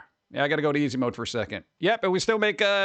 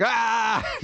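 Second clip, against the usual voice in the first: short, higher-pitched "ah" at the cat; mock yell; 6 semitones higher than usual. Streamer pretending to yell back at the cat, mock yell. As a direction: pretend to yell back without much volume. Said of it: "Yell back at the cat?".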